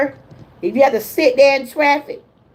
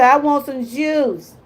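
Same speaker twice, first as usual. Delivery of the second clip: imitating granddaughter; 3 semitones higher than usual. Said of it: "my little granddaughter, she might say".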